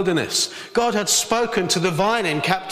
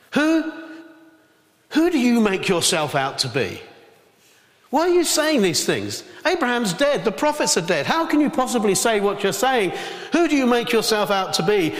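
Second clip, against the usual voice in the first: mock outraged crowd; 3 semitones higher than usual. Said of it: "they got really upset about this".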